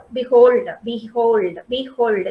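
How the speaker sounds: "behold" repeated as two syllables, be-hold; syllable demonstration. Shown as a demonstration. Teacher showing students the syllables, "behold" sounded as be-hold. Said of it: "This is how we, we have to pronounce it".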